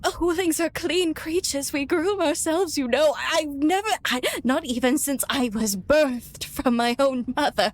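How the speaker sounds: prissy indignant character. Acted. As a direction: complain with wounded dignity about being filthy. Fiskorth laments being dirty.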